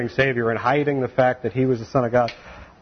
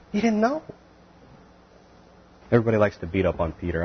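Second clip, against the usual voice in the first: ordinary delivery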